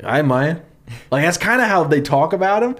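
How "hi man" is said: a light mock Southern drawl; Southern accent. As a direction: lightly imitate a Southern guy. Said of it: "talks like a Southern guy".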